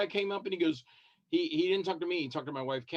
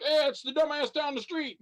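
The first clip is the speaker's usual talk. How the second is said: mock fan greeting; 11 semitones higher, 4 dB louder than usual.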